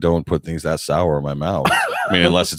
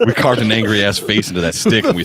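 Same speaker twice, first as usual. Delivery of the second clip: laughing; 2 semitones higher, 3 dB louder than usual. Real, not acted. Laughing through a joke.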